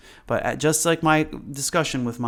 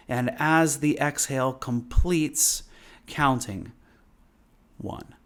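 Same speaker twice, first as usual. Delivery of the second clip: slow breath counting; 2 semitones higher than usual. Shown as a demonstration. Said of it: "So as we practice today".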